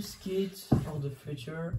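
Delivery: brand name said slowly in an English accent. Shown as a demonstration. Reading the sweater's brand to viewers, in an English accent. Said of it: "avec l'accent anglais".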